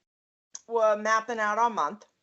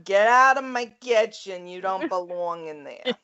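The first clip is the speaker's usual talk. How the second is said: put-on thick Queens accent; 2 semitones lower than usual. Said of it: "Just pulled it right out of you".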